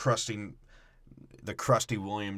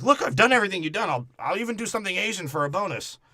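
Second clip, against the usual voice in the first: mock boast; 9 semitones higher, 4 dB louder, faster than usual. Mock quote.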